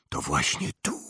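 low hushed whisper. A narrator's reading. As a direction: breathe it quietly, low. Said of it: "wyszeptała profesor McGonagall".

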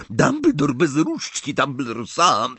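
sneering Death Eater mocking Dumbledore; gloating Death Eater. A narrator's reading. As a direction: taunt the trapped headmaster.

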